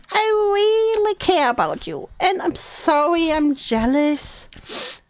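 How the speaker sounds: high earnest start, slowing into apology; mock heartfelt confession; acted pleading apology. Reading out long apology texts.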